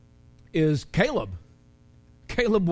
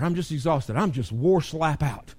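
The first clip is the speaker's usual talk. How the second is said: mildly voiced weary complaining; a hint of a worn-out sigh in it; tired complaint. Pastor lightly voicing a tired member, plain tired complaint. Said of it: "sometimes we get used to".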